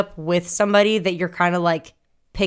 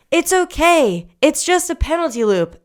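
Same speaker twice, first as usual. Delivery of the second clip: mock reassuring coach; 8 semitones higher than usual. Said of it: "And she's like".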